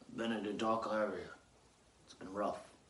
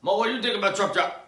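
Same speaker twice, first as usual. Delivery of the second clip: excited call; 11 semitones higher, 10 dB louder, faster than usual. Real, not acted. Calling to co-host.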